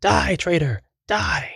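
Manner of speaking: very high, strained mock scream; high-pitched cry of disbelief and fury, held back in level; acted scream. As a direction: scream it high without real volume, as a betrayed swordsman. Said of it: "turns in disbelief and screams".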